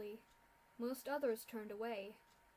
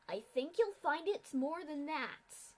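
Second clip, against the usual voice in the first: cold reply; 4 semitones higher, 7 dB louder, slower than usual. Acted. Masked official cuts in coldly.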